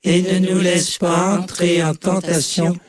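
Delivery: level, monotone group recitation; choral prayer response. Real, not acted. Congregation answering the leader in the Lord's Prayer, monotone prayer. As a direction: recite evenly in unison, barely moving the pitch.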